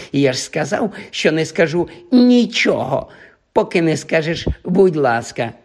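дражни, вище виділяючи ключові слова; задоволено повторюй свій жарт; глузливе дражніння. Acted. Півз дражнить Філча. (глузливо повчає)

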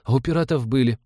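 put-on high-pitched child's reproach; reproachful little boy. A narrator's reading. Boy faults the ship for having no gun, reproachful high voice. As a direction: chide like a small boy. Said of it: "упрекнул мальчик".

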